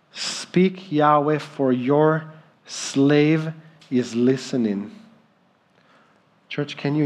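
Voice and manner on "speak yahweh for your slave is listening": reverent slow prayer. Real, not acted. Repeats the prayer slowly, reverent.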